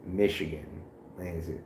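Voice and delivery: put-on faint Detroit rap accent; mock accent of a rapper. Friend answers where he's from, lightly doing a rapper's accent. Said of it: "he would say it with the rapper's accent".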